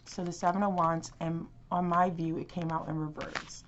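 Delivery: talking with candy in mouth; mouth full. Real, not acted. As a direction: speak around a piece of candy. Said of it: "I'm choking on a piece of candy".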